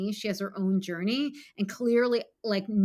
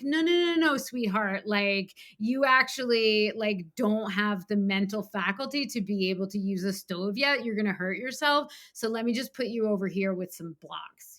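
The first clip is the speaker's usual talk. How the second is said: gentle parent voice. Retold or imitated. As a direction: coax a small child away from danger. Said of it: "instead to just be like".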